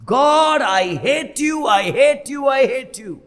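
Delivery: a retold cry of rage at God, rising to a shout on the middle one; preacher voicing the mother's anguished, angry scream; grieving mother's angry outcry. Grieving mother screams at God in the car, angry outcry. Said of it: "கத்தி கதறினாங்களாம், கூச்சல் போட்டாங்களாம்".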